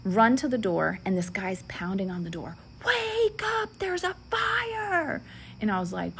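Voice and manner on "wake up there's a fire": high, frantic then hushed alarm; urgent warning. Retold or imitated. Stranger at the door warning the sleeping family, mock urgent. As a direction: warn them half in panic.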